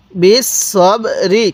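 slow, drawn-out বিস সব রি; model recitation. Shown as a demonstration. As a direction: hold each syllable of বিস সব রি, separately. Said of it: "কীভাবে পড়ব?".

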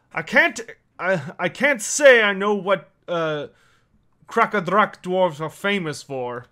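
lightly voiced dwarf, halting; a hint of a dwarf elder sizing someone up; dwarf character. Dwarf questions the newcomer's skills, lightly voiced character.

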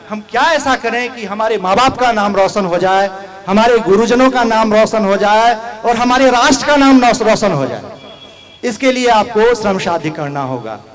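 rally the class, rising to a peak; rousing exhortation. Real, not acted.

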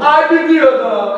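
high, slow drawn-out Ai, pedido!; hammed-up crooner wail; imitating a singer. Shown as a demonstration. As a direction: stretch out the Ai like the crooner. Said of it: "Bota um aí na frente".

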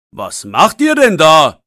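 loud, stern man's call. Acted. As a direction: catch the boys in the act. Man calls out to boys. (lauter, strenger Zuruf)

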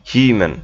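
হিউম্যান as "HEE-mun"; U nearly silent. Shown as a demonstration. Teacher repeating the correct form, "HEE-mun" হিউম্যান. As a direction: drop most of the U in হিউম্যান. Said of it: "ইউর উচ্চারণটা কিছুটা উজ্জ্ব থাকে".

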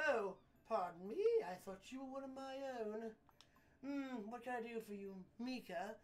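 receive a courier with lordly courtesy; theatrical gentleman of the mansion; genteel older client. Acted. Voices Mister Andros greeting the courier.

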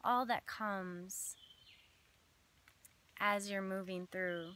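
measured meditation voice with long pauses between phrases; unhurried phrases, each left to settle; guided visualization. Acted. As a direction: lead listeners gently through an imagined scene.

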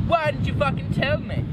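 high-pitched mock shout; hammed-up high yell, no extra volume; angry shout. A narrator's reading. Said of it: "he shouted".

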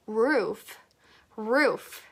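"roof" with a long, held OO; "roof" slowly modelled with a drawn-out "oo". Shown as a demonstration. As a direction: stretch the vowel in "roof". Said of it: "O 소리를 길게".

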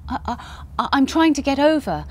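stammering, trembling voice; shaky voice. Acted. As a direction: stumble over the words, nervous. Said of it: "explained Patch in a shaky voice".

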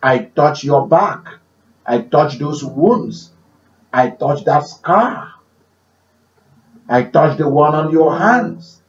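healing prayer. Retold or imitated. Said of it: "I said".

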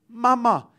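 lightly voiced little girl's call. Little girl speaking to her deaf mother, child's voice. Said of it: "And the little girl said".

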